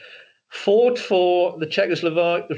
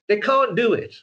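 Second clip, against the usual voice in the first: "can't" said as a short, hard Eastern European "can't", voice pitched higher; Eastern European accent; 5 semitones higher than usual. Shown as a demonstration. Explaining that the dialect never leaves, with a hard "can't". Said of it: "if you speak like this".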